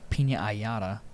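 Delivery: PINA COLADA echoed as "peenya-yada"; echoed TikTok mispronunciation. Retold or imitated. Echoing a friend's TikTok line, colada as "ayada". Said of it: "You don't know the TikTok?".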